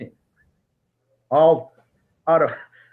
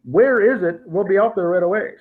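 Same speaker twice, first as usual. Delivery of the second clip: mild surprise; 4 semitones higher than usual. Retold or imitated. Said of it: "They said".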